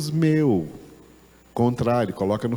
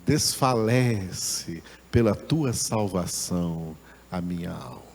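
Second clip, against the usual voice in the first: long for it, ending in a breathed whisper; aspiration, longing; 4 semitones lower than usual. Shown as a demonstration. Teacher shows the Hebrew verse's sense of longing, yearningly. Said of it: "dá a ideia de aspiração".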